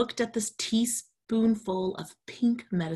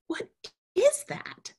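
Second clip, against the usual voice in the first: whispering; slower than usual. Acted. Sammy asks, whispering.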